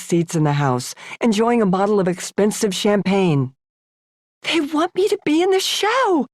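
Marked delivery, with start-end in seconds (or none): 4.4-6.3 high, breathless amazed voice; breathy awe. Acted. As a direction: breathe it out in disbelief. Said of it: "I breathed".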